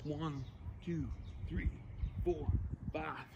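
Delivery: counting reps mid push-up; strained counting while exercising; doing push ups. Real, not acted. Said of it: "Drop down and do five push-ups".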